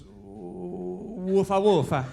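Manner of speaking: drawn-out howl into a punched dog bark; Italian pit bull bark. Acted. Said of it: "He goes like this. He goes".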